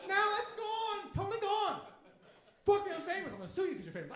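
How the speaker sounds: hammed-up whiny lament; mock whining. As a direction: lament it like a spoiled star. High mocking voice, mourning fame.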